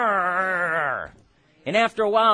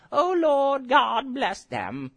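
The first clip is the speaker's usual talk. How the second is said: mock limp prayer; 2 semitones higher, slower than usual. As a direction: parody a half-hearted pray-er. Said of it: "No, he's like".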